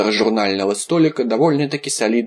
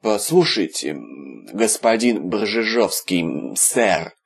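pleading; slower than usual. Acted. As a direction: beg him, growing desperate. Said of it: "взмолился Виталик".

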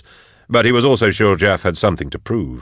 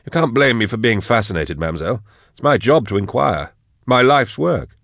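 higher-pitched, lightly voiced protest; protesting captive scholar; 4 semitones higher than usual. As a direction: plead curiosity to a captor. Narrator voices captive Drusha stalling.

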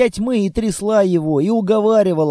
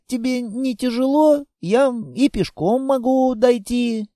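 put-on higher, drowsy child's voice; sleepy little girl; 5 semitones higher than usual. Girl almost asleep asking the monster, drowsy. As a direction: murmur it as she drifts off. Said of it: "стало разговаривать медленнее".

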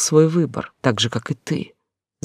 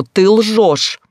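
high, loud yelled accusation; furious phone shout; 7 semitones higher, 5 dB louder than usual. Acted. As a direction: scream it into the phone. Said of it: "заорала я в трубку".

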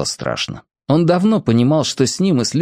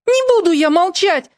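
defiant cry. A narrator's reading. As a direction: yell it back at him. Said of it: "выкрикнула в ответ Маша".

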